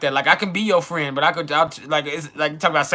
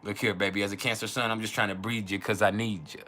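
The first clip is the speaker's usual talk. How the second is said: mock seductive; 6 semitones lower, 8 dB quieter than usual. Playing a Cancer man whispering to a lover, mock seductive. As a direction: lower and softer, a put-on lover's line.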